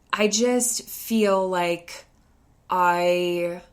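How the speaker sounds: mock-tearful little boy; imitated crying kid. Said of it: "and he's crying through this".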